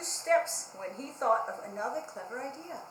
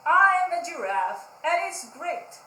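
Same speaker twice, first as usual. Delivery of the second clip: boasting; 4 semitones higher, 9 dB louder than usual. Acted. Pig boasting on stilts.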